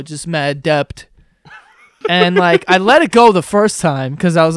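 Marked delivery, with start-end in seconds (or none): 0.0-1.0 "debt" said as "dept", drawn out; mispronounced debt. Retold or imitated. Quoting a friend complaining he is in debt, mispronounced. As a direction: put an audible p before the t in "debt". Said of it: "used to say the word debt".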